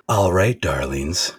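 second try at sultry greeting; imitating Leah. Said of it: "should I try again".

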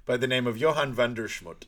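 hammed-up narrator villain; Doctor Evil impression. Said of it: "He said".

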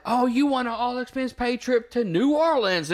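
hammed-up prize announcement; game show host. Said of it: "Wheel of Fortune".

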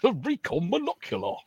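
Recon said REE-con in a high mock American voice; American accent. Shown as a demonstration. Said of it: "in an American accent".

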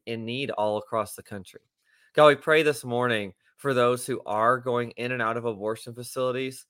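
steady, earnest opening prayer. Acted. Co-host leads listeners in morning prayer, earnest and steady. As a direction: lead the prayer aloud with reverent focus.

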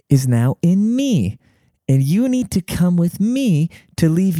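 mock-solemn guru sermon, a touch slow; cult leader preaching. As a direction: intone it like a self-proclaimed messiah. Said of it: "He's just talking about, like".

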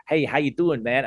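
light take on a Southern American greeting; Southern American accent. Retold or imitated. Host imitating his podcast guest's greeting, Southern American accent. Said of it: "the Southern American accent".

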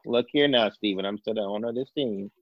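lightly put-on old Texan team-owner accent; a playful hint of a Texan accent as the old owner; mock Texan accent, scolding his son; Jerry Jones accent. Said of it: "He wins 'cause he did the accent".

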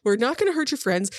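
lightly voiced flustered, apologetic captor. Captor apologising to the prisoner over a misunderstanding, lightly flustered. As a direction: stumble anxiously through a hasty apology.

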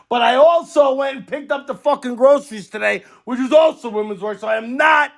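joking defensive rant; mock indignation. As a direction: play the wronged husband.

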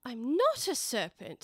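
slow protest, weight on "not"; indignant. Acted. Alice answering the screaming pigeon, mildly indignant. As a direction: deny it with mild affront. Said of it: "said Alice indignantly".

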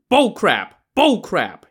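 high, loud angry yell; furious repeated shout. A narrator's reading. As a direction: keep hurling it over and over. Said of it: "he kept yelling".

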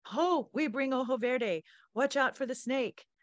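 high, loud call from above; yelling. Acted. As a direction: shout it down the cliff. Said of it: "A voice above us yelled".

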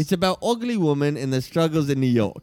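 broad mock Aussie pitchman; Australian accent. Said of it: "I'm from Australia".

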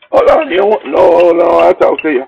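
imitating her high, whiny plea; pleading woman. Woman begs him to hold on before he hangs up, imitated high. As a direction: beg him not to hang up.

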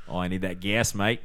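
lightly faked Australian accent; half Australian accent. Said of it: "halfway Australian accent that he had".

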